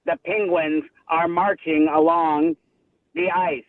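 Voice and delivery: low, measured documentary narrator; Morgan Freeman. Acted. Caller asking hosts to guess who, low amateur narrator impression. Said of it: "It's Morgan Freeman".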